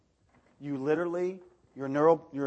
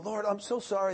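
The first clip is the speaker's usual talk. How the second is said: high pleading sorry, hammed-up; mock pleading apology; 9 semitones higher than usual. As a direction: whine it like an endless apology. Mocking his own endless apologies.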